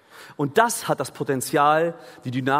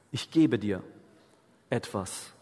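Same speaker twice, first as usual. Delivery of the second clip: usual speaking voice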